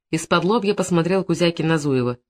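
plain reading voice

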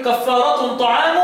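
"كفارة" ending -tun, "طعام" ending -u; tanween and raf'. Shown as a demonstration. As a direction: sound kaffaaratun ta'aamu for "كفارة طعام". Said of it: "بالتنوين والرفع".

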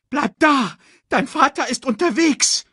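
very high, urgent bird cry; squawking bird. A narrator's reading. Sasu tells Simba that father is coming, squawking. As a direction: squawk reassurance from above. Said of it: "krächzte Sasu".

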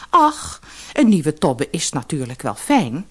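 hoog ingezet, licht gespeelde vrouw; vrouw van de visser. Acted. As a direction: een beetje zeurende visserswijf. (hoge stem van de vissersvrouw)

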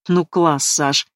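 bitter smirk. Acted. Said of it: "горько усмехнулась Лера".

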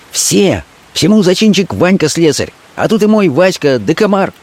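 high urgent woman's voice; a street girl warning her man; Fenka warning. Acted. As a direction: warn him, high and hurried. Fenka's voice held.

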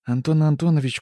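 high, loud name drop; boastful hostess. A narrator's reading. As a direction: announce the name proudly. Hostess names guest.

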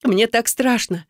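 slow, mildly tearful plea; a touch of a sob, drawn out; frightened girl sobbing to her rescuer, understated. A narrator's reading. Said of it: "всхлипнула я".

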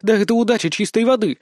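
indignant. Acted. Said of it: "возмутилась Шанго".

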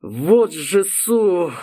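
slow curse swallowed mid-word; cut-off curse. Acted. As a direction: bite off the swear word. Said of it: "Окончание слова проглотил".

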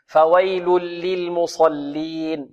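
slow "فويل للمصلين", every L given its time; unhurried recitation. Shown as a demonstration. Teacher modelling careful reading for students, slow recitation. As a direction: stretch "فويل للمصلين" out letter by letter. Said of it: "يحذر القارئ من خطفها".

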